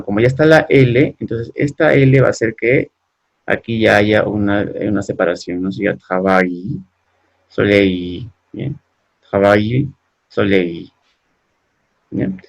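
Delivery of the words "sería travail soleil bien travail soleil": travail and soleil ending in a long glide, trava-y, sole-y; French ail and eil. Shown as a demonstration. Teacher repeating the words slowly for students. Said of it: "una I alargada".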